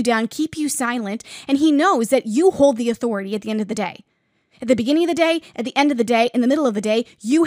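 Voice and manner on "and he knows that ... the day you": louder, driving preacher's build; preaching loudly. Acted. Preacher rallying listeners about their authority, loud and driving. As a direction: hammer each phrase home to the congregation.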